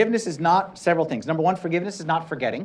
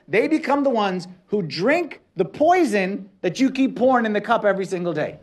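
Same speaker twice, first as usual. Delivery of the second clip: raised-pitch, insistent sermon delivery; emphatic preaching; 6 semitones higher, 4 dB louder than usual. Real, not acted. Preacher warning that loved ones drink the poison, emphatic preaching. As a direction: press each phrase home to the congregation.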